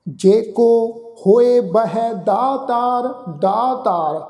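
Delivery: slow, devout chanting, each phrase drawn out; gurbani recitation. Acted. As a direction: chant the verse with reverence.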